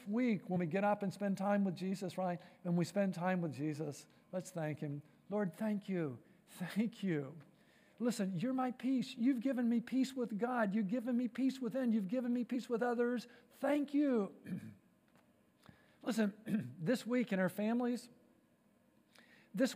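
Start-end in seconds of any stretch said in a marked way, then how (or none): 5.3-14.3 prayer. Acted. Pastor models a prayer again.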